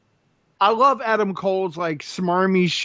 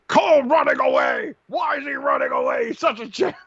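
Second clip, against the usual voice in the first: high, shouting play-by-play call; mock commentator yelling over the action; excited commentator; 6 semitones higher than usual. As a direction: ham up the announcer's excitement. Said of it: "it's like".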